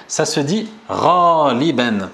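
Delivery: slow, careful raliban; slow Arabic word. Shown as a demonstration. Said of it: "C'est très facile".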